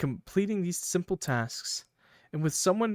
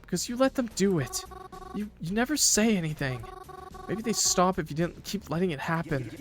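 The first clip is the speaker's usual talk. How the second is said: put-on higher, upset girl voice; hurt Mary; 5 semitones higher than usual. Mary hurt and defiant toward her angry boyfriend. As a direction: push back hurt and indignant.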